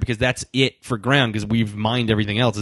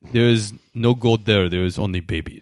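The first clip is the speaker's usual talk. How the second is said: mock Eastern European accent; 2 semitones lower than usual. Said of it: "a Eastern European accent".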